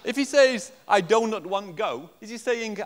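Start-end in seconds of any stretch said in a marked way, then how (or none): 0.9-2.1 put-on loud, higher foreign-accented learner English; broken English in a put-on foreign accent. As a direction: foreign accent, "do not" sounding like "donut". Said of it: "has a terrible accent".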